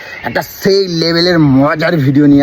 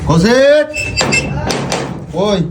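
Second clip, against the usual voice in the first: yelling across the room; 7 semitones higher, much slower than usual. Real, not acted. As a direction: call out to a friend outside. Calling friend from outside house.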